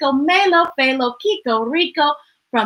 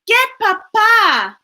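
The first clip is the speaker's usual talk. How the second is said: urgent; 9 semitones higher, 5 dB louder than usual. A narrator's reading. Urgent mother's order.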